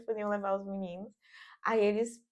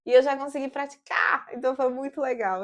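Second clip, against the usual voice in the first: excited; 4 semitones higher, 7 dB louder than usual. Real, not acted. Thrilled about practicing.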